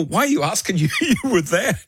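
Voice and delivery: amused, laughing retort to his wife. Retold or imitated. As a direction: laugh while asking it back. Retelling laughing in his dream.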